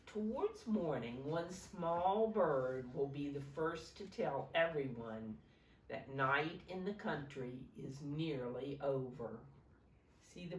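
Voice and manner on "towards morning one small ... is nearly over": storybook reading. Acted. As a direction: paint the night sounds for the kids. Reads picture book to children.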